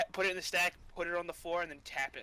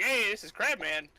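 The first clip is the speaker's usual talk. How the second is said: louder, higher game show intro; big hosting voice, pitched up; 4 semitones higher, 5 dB louder than usual. Acted. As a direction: announce him like a game show host. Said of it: "like a game show host".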